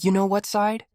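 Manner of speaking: high, mock-tough challenge; mock gang tough guy. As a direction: taunt him in a hammed-up gangster voice. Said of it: "Maybe he's like".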